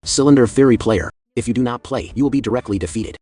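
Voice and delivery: loud, icy threat through a speaker; ice-cold warning. Acted. Clown threatens the silent player over the speaker, loud and icy. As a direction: bark the ultimatum coldly. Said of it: "The clown's ice-cold voice echoed from the speaker".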